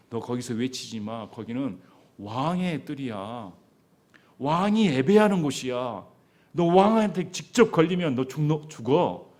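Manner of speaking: threatening. Acted. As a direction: warn him off, building to a threat of death. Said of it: "이렇게 협박하였습니다".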